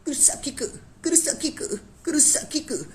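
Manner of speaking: very high, squeaky mock anime girl cry. Vlogger mocking the Bleach girl's one line, high squeal. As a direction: squeal the name like a helpless anime heroine. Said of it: "एक ही dialogue है उस लौंडिया का".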